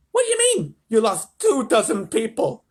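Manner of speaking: high, outraged shout, slowing down. A narrator's reading. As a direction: shout in disbelief as the president. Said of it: "shouted the president".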